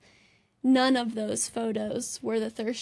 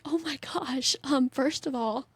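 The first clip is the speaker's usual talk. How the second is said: lightly put-on Southern accent; slower than usual. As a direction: imitate a sweet man with a Southern twang. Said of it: "I just put that accent on".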